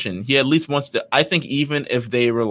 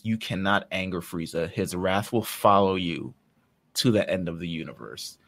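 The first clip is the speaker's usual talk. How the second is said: grave warning; 4 semitones lower, 3 dB quieter than usual. Acted. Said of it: "King Kai warns Goku about Frieza".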